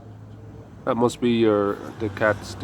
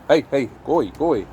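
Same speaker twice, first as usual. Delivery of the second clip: shooing; 2 semitones higher, faster than usual. Real, not acted. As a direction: chase the cats off with a raised voice. Cats following, shooing them.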